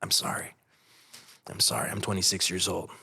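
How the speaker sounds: soft, retold apology between breaths; a hint of crying out "sorry"; sobbing apology. Son to his mother at the door, mild retold sobbing. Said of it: "in between my breaths".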